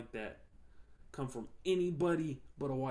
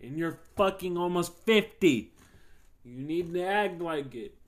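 imagined telling off; 5 semitones higher, 9 dB louder than usual. Retold or imitated.

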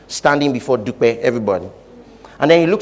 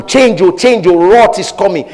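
warning; 3 semitones higher, 5 dB louder than usual. Acted. Holy Ghost warning again.

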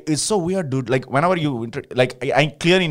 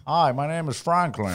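lightly voiced white guy; slightly higher, mock white-guy introduction; 4 semitones higher, 4 dB quieter than usual. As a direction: put on a hint of a white-guy voice. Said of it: "it's very white".

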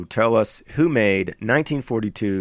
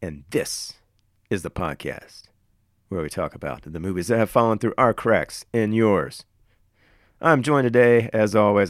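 trailer voiceover voice. Acted. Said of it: "A little bit of a trailer voiceover guy kind of vibe".

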